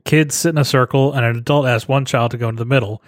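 light Aussie reading voice; Australian accent. Pretend. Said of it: "read it for us in your Australian accent".

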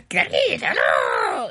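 a lightly voiced Greed, called out; put-on Greed voice. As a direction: greet like a cocky villain. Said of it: "He doesn't talk like that. I don't know why I'm doing that voice".

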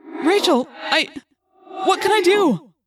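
high, loud, helpless plea; distressed. A narrator's reading. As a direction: cry out in rising desperation. Helpless friend hears of trap.

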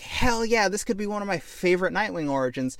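high, excited cheer; a playful high hell yeah; mock hype. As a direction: cheer like a fan. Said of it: "And I was like".

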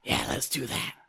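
lightly voiced raven; casual raven spirit. S2 holds the Raven voice.

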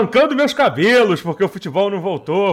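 hammed-up fan's lament; mildly overdone frustrated complaint; mock exasperation. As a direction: play a fan despairing over no football. Acts out frustrated football fan.

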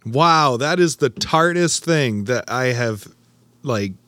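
puckering from a very tart sip; sour taste shock. Real, not acted. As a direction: talk through a sour pucker. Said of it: "it's literally making my".

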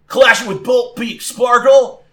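high, loud call to your Pokemon; shouted battle command. Acted. Trainer retakes the order to Sparkle, shouting. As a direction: shout the move with urgency.

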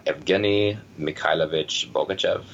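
Russian name said with a Russian accent. Real, not acted. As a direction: say Evgeny Mikhailovich Bogachev in a Russian accent. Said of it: "That was better Russian accent than I could do".

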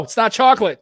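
mock disgust. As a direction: act out tasting a stain and recoiling. Pretend stain taste test.

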